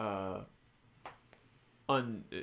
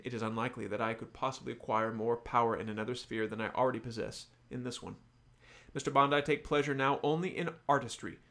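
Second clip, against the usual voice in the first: lightly voiced villain monologue; Mister Big. Host reads the villain's confession to Bond, lightly acted villain. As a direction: read it as a formal, measured dramatic speech. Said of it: "this is Mister Big speaking, the villain".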